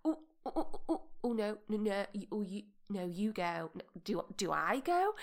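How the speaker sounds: mock British over-politeness, stop-start; stuttering dither. British drivers deferring at a mini roundabout, mock dithering. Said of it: "we're all just stuttering around".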